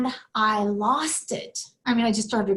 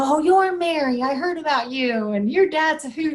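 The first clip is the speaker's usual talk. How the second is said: high, loud, excited nurses' greeting; louder, higher mock fuss; gushing greeting; 5 semitones higher, 5 dB louder than usual. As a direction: imitate delighted nurses gushing hello. Acts out nurses greeting her.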